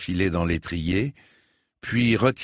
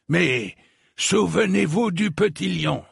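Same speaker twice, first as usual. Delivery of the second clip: urgent reminder; 9 semitones higher than usual. A narrator's reading. Old lord's urgent parting reminder.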